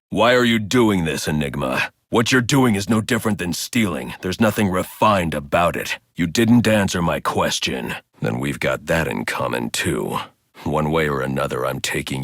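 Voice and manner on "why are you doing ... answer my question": angry confrontation. Acted. Confronting Enigma.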